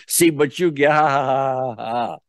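imitated jeer trailing into acted ha-has; taunt, then let the fake laugh die away; mocking laugh. Therapist voices the grandmother jeering at the client, mock laughing. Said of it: "your grandmother is laughing at you".

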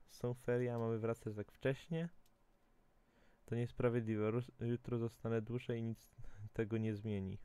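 reading a diary aloud. Acted. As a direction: read the kid's diary entry. Reads child's diary aloud. (czytanie pamiętnika dziecka)

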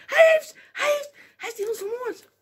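very high stammered mock horror; squeaking, hammed-up shock; aghast disbelief. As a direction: stutter out a scandalous discovery. Acting a shocked Bible reader.

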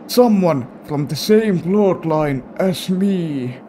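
Grandpa voice. Pretend. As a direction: tell the grim tale as grandpa. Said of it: "given this guy this voice".

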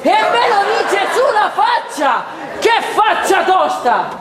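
high, indignant, laughing shout; indignant, half laughing; offended outburst. Acted. (sfogo indignato e acuto)

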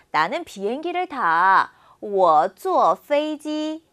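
sentence read very slowly for students to repeat; slow, clear drill sentence for the class; slow model reading. Shown as a demonstration. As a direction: read it word by word like a language teacher.

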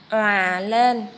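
òa said round and full; rounded lips. Shown as a demonstration. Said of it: "mình đọc tròn môi".

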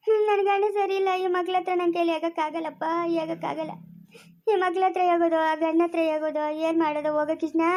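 tearful lament. Acted. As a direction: lament your troubles through tears. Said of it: "ಯಾಕಮ್ಮ ಅಳ್ತಾ ಇರೋದು?".

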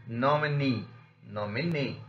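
long, strong last syllable in "nominee"; stressed suffix. Shown as a demonstration. Teacher shows suffix rule, nominee stressed on last syllable. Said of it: "suffixes will only receive the stress".

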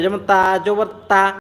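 তা pushed up with an open a; zabar pushed upward. Shown as a demonstration. Quran teacher showing zabar to class: তা pushed upward. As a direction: push তা upward as you say it. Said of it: "তায়ের উচ্চারণটা উপরের দিকে".

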